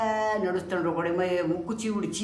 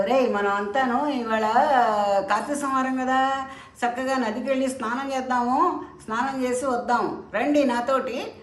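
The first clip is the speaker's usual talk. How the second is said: put-on guru calling the boys; 6 semitones higher, 3 dB louder than usual. Guru calls disciples to bathe.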